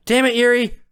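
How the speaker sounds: high call after her. Acted. Chasing Yuri down the sidewalk, high call. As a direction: shout her name as she walks off.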